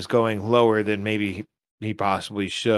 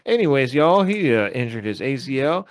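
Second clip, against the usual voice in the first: put-on Texas accent. Podcaster resuming his player story, put-on Texas accent. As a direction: play the folksy Texan storyteller. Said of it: "Does it sound like a Texas accent".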